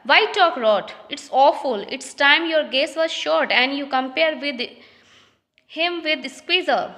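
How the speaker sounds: reading each English line slowly and carefully; slow play reading. Acted. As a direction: read it out like a play script, word by word. (धीमी, साफ़ नाटक पढ़ाई)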